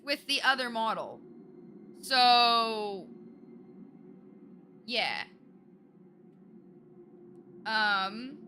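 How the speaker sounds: put-on Southern accent. Streamer doing a Southern accent for chat, lightly put on. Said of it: "y'all get ten minutes with the accent starting now".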